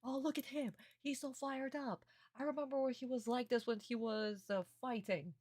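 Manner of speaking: high put-on voice; mock Honda. Fan voicing Honda admiring Jonochi, high and admiring. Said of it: "So Honda is like".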